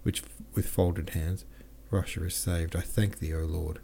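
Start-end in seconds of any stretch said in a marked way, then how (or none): 1.9-3.8 tremulous voice. Acted. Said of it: "said he in a tremulous voice".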